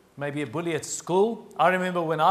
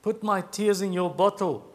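solemn scripture reading. A narrator's reading. Preacher reads David's psalm to the congregation, solemn and declaiming. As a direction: read it out with weight, line by line.

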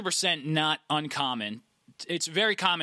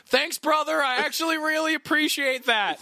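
stoner voice; 13 semitones higher, 4 dB louder than usual. Retold or imitated. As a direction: do a stoned guy thanking you. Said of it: "That's a great stoner voice".

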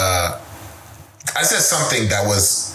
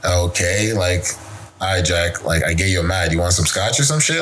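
lower, easygoing reassuring tone; calm conciliatory; 4 semitones lower than usual. Retold or imitated. Friend calming angry Jack, lower and easygoing. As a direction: settle him down with a shrug.

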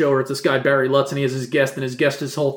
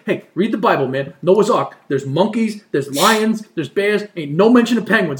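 Jersey guy; 5 semitones higher, slower than usual. Retold or imitated. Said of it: "He's like".

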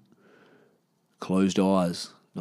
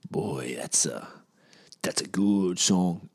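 hushed awe; 3 semitones lower, 5 dB quieter, slower than usual. Real, not acted. Quiet awed aside about song.

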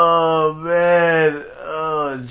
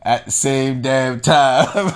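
chuckling; slower than usual. Real, not acted. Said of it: "hilarious and disrespectful".

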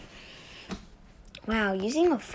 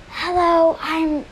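lightly put-on higher character voice; new girl's voice; 5 semitones higher, slower than usual. Shown as a demonstration. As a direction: begin a higher-pitched character greeting. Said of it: "her voice comes like this".

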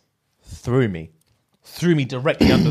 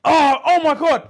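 high, loud, drawn-out horror; imitating a shocked classmate screaming; retold scream; 11 semitones higher, 5 dB louder, slower than usual. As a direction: cry out slowly in mock horror. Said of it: "and she screams".

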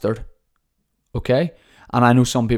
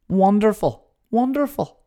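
excited; 11 semitones higher, 3 dB louder than usual. Real, not acted. Delighted self-reply.

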